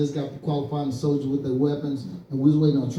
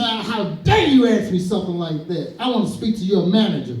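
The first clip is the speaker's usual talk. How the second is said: mock outrage, a little raised; acted-out huffy complaint; indignant customer; 2 semitones higher, 3 dB louder than usual. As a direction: play the offended customer demanding satisfaction. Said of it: "Oh, she got pissed".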